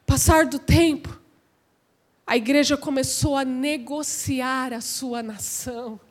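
low, soft, sinking delivery; hushed, grave preaching. Real, not acted. Preacher confiding the church's compromise to the congregation, hushed. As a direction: drop right down and let it fade. Same sentence first hushed, then raised.

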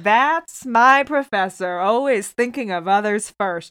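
drawn-out mock admiration; Biff. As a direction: slowly gush about your professor, lightly acted. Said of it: "Biff is like".

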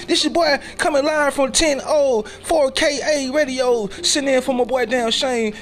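high, loud hype DJ voice; hyped-up radio announcer shouting over the mic. Acted. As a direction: shout it like a live radio host. Radio DJ persona hosting.

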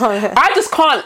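laughing through I just can't. Real, not acted. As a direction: giggle while saying it. Laughing, then repeated plainly.

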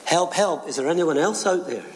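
high, urgent call for help; shouting for help. Acted. Jack refusing God's answer, calling upward, high and urgent. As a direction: call out for anyone else. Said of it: "Jack looked up and shouted".

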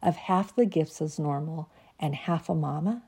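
measured, reflective poem reading; reading her poem. Acted. Reading her Christmas piece to podcast listeners, reflective.

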